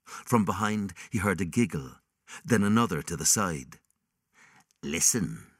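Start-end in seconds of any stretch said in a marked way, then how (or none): 4.8-5.5 cackling demon. Acted. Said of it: "cackled the demon".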